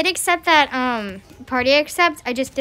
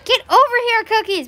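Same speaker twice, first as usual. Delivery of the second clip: calling a pet; 7 semitones higher than usual. Real, not acted.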